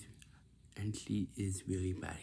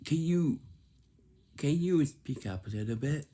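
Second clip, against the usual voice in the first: louder and higher, yelling the request; 6 semitones higher, 8 dB louder than usual. Shown as a demonstration. Kid showing the rude way to ask, yelling. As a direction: shout it at a hard-of-hearing lady. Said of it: "Not just yelling".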